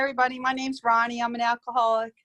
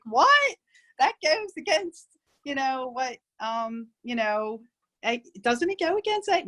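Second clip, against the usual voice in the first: a retold jolt of surprise, pitched way up; shocked disbelief; 3 semitones higher than usual. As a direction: react like you can't believe what you just read. Reading a startling letter.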